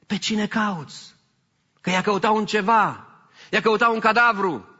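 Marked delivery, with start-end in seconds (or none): 0.1-1.1 slow down so she finally gets it; slow hinting question. Acted. Jesus nudges Mary toward recognizing him, slow hint. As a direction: ask it again, slow and pointed.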